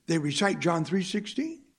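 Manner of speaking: rising, disbelieving question; mild shocked rise on sixteen; incredulous question. Retold or imitated. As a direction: ask it as if you can't believe it. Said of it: "I thought to myself".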